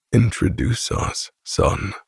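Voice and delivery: flat, level, emotionless repeat; Grant's monotone. Acted. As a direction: say it dead flat, no inflection. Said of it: "Grant repeats in the same monotone voice".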